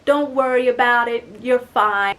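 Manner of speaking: put-on Russian accent. Boyfriend reassuring her about slippers, Russian accent. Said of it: "in his Russian accent".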